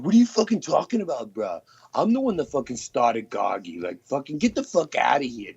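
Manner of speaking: high-pitched imitation of an annoyed bro; mock indignant impression. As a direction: put on his indignant protest, half-mocking. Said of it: "Yeah, he's like".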